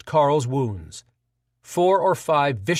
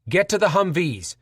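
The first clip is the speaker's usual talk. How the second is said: shouted; 4 semitones higher than usual. Acted. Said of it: "Carl shouted".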